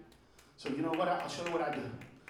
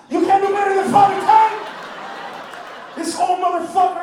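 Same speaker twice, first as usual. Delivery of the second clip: loud, higher comic rant; shouting; 7 semitones higher, 6 dB louder than usual. Real, not acted. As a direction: yell it at the crowd. Ranting at audience.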